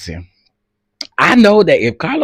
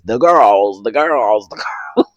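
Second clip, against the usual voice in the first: 1 Mama D voice; 3 semitones lower than usual. Retold or imitated. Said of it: "And my Mama D voice".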